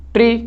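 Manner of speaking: ट्री said short, without weight; unstressed syllable. Shown as a demonstration. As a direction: let ट्री pass without stressing it. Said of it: "time नहीं लग रहा है". (ट्री छोटा, बिना ज़ोर)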